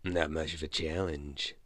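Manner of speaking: lightly rasped, dry remark; a hint of a hoarse croak. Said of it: "the hoarse voice informed him".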